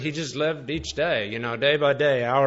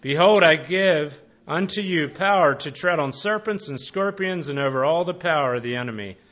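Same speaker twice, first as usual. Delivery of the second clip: a lightly raised formal Bible reading voice; scripture reading. Acted. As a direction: read the verses out to the congregation, measured. Reads Luke passage aloud.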